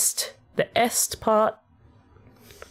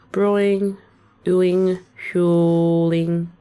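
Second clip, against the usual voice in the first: "Brewing", "doing", "fueling" each said louder and apart, ending on the -ing; rhyme emphasis; 3 dB louder, much slower than usual. Shown as a demonstration. Songwriter showing how the words rhyme in her Australian accent, each word stressed. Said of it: "with my accent, this is how they would rhyme".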